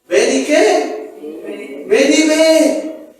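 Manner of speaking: very slow, drawn-out invitation; slow inviting call. Acted. Felipe inviting Natanael, slow and drawn out. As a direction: draw each word out gently.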